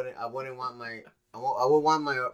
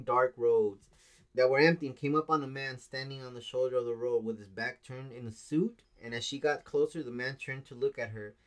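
reading aloud haltingly. Shown as a demonstration. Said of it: "I'm gonna read it word by word".

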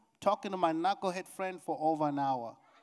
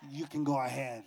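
low, falling permission that means stay; imitated wife, pitch dropped on the yes; reluctant go-ahead; 4 semitones lower than usual. Shown as a demonstration. Wife demonstrated to congregation, reluctant low go-ahead. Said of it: "It was".

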